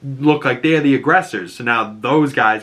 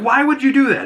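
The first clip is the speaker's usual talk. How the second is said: high, baffled cop voice; mock baffled question, pitched up; incredulous cops; 4 dB louder, faster than usual.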